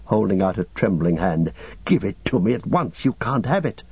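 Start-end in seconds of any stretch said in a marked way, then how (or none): 1.9-3.8 insistent demand, rising in pitch; mildly frantic possessiveness; demanding cry. Acted. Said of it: "he cried".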